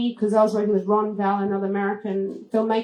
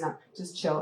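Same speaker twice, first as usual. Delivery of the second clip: laid-back reassurance; 5 semitones lower, 9 dB quieter than usual. Retold or imitated. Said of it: "He goes".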